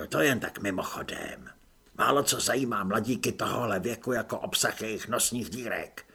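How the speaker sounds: low, easy-going stranger's voice, lightly done; a hint of a wry unseen helper; hidden adviser. Voice behind wall praising Apoléna's disguise, lightly low.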